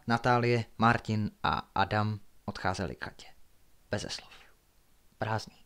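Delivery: measured, hushed suspense reading; story narration. A narrator's reading. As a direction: read a mystery aloud at night. Narrates a night-time story.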